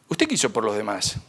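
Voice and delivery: San Pedro pregunta más grave y pausado "¿usted qué hizo por los demás?". Retold or imitated. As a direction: preguntar como un juez severo, en tono grave. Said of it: "una pregunta que me va a caer es esta". (San Pedro interroga al que llega al cielo, con voz grave)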